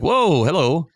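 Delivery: retold jokey surprise, pitched well up; mock surprised greeting. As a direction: act caught off guard but keep it breezy. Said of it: "And I'm like".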